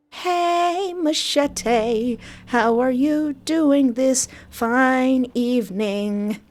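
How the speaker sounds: slow, drawn-out high greeting; a lightly put-on stranger voice, slow; lightly voiced stranger.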